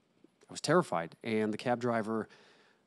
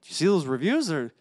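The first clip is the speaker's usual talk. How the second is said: imitating mom; 7 semitones higher, 7 dB louder than usual. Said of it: "my mom was like".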